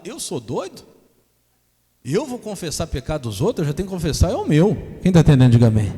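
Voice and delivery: building to a loud preaching shout; rising shout. Acted. Preacher calling the church to say amen, shouting.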